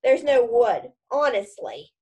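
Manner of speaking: loud mocking echo; mocking imitation. Ron mocking Hermione's earlier panic, scornful imitation. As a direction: mimic her words with scorn. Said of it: "said Ron".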